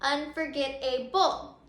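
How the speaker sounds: "Unforgetable" slow, split into distinct syllables; sounded out slowly. Shown as a demonstration. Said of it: "say that word unforgettable out loud".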